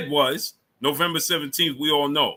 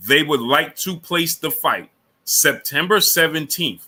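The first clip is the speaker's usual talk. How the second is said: slowed down; slower than usual. Real, not acted. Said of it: "I'm going to slow down for you".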